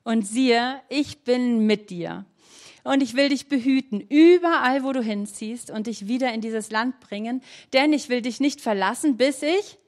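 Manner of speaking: slow, measured Bible reading with long pauses; solemn scripture reading. Acted. Preacher reads Jacob's dream to the congregation, slow and solemn. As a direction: read the promise to the congregation like holy words.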